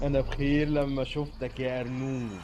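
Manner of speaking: sly fox with a low chuckle after; scheming storybook fox; crafty fox. Acted. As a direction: greet your prey and finish on a low laugh.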